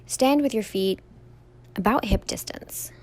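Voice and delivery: calm, even meditation guide with long pauses; guided meditation. Real, not acted. Yoga teacher leading listeners through a standing meditation, calm guided delivery. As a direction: guide them gently through each step, leaving room to breathe.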